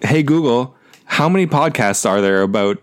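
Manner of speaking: repeating to voice assistant. Real, not acted. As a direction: speak up for the voice assistant. Talking to phone assistant.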